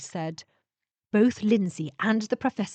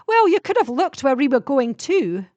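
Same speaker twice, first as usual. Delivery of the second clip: protesting; 6 semitones higher, 7 dB louder than usual. A narrator's reading. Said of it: "she protested".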